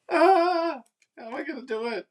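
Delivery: fretful. Real, not acted. Fretting over centering the piece.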